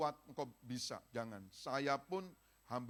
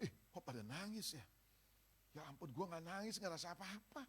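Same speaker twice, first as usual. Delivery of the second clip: mimicking worshipper; 5 semitones higher, 5 dB quieter than usual.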